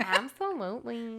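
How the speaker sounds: drawn-out, exaggerated agreement; hammed-up slow emphatic agreement; playful drawl. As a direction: stretch "Absolutely" slowly, syllable by syllable. Playfully exaggerated repeat after laugh.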